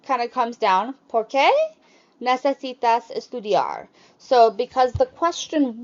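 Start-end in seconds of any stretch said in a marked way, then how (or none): 1.1-3.9 "qué" raised, then falling through "estudiar"; high start, falling. Shown as a demonstration. Teacher showing question-word intonation, high start. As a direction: lift "Por qué", fall after. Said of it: "swap that octave tone change to the beginning".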